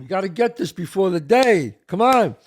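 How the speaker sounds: loud, urgent push to hurry the crew; rally the set before the light goes; impatient director shouting at the crew; director yelling. Retold or imitated. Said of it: "director pressing the crew".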